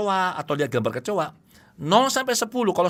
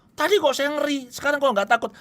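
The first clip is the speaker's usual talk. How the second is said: higher, amazed client voice; acted surprised client; 9 semitones higher than usual. Client after therapy surprised to the therapist, higher puzzled voice. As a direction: play the client puzzled that the fear is gone.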